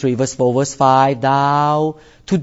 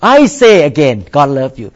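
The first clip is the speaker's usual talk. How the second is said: Southern preacher; 3 semitones lower, 3 dB louder than usual. Retold or imitated. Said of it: "They, they say like".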